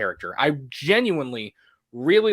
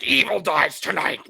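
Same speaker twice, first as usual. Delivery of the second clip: louder, higher, drawn-out mock rallying cry; oversold battle cry; 4 semitones higher, 3 dB louder, slower than usual. Co-host mocks the overselling she avoided, in a hammed-up cry. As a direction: ham up a movie catchphrase, stretching it out. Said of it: "she didn't try to oversell anything".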